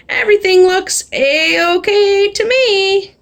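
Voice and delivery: a slow satisfied cop drawl; slow, pleased lawman voice; policeman voice. Acted.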